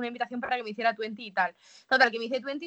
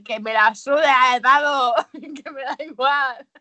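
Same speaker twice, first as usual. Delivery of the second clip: brash yell; 9 dB louder, slower than usual. Retold or imitated. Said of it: "y yo en plan".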